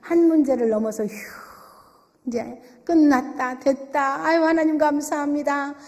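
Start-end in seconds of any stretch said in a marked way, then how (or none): 1.0-5.8 mildly acted relief after a long exhale; sigh of relief. Believer thanking God once a problem is over, relieved. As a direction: let out a breath, then relax. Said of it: "이렇게 숨 딱 쉬고 있는데".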